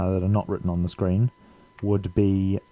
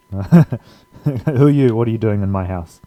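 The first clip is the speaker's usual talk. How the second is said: mock indignant homeowner; 2 semitones higher, 4 dB louder than usual. Mock intruder line after laughing.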